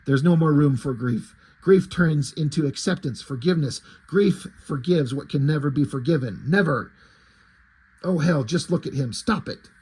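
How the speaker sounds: lightly voiced, grim inner monologue; a tortured hero talking himself into it; brooding Batman. Batman justifies torturing the boy, lightly voiced grim brooding.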